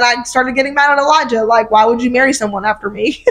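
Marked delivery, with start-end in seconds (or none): 1.7-3.2 laughing mock accusation. Mock scolding husband.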